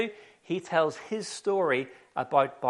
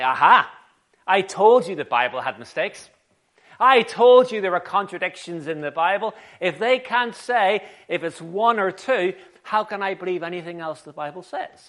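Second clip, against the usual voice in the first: loud, triumphant mock objection; gotcha sceptic; 6 dB louder than usual. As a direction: pounce like a sceptic who caught a mistake. Acted sceptic pouncing on a mistake.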